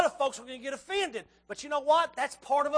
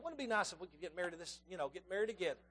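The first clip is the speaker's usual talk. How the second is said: imagined thought; 5 semitones lower, 10 dB quieter, faster than usual. Retold or imitated. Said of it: "they're thinking".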